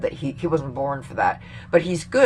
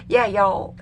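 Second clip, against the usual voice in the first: imitated Black American speech, slightly raised; mock Black American accent; 4 semitones higher, 3 dB louder than usual. Mocking a candidate at her rally, put-on Black American accent. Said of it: "then she was talking black".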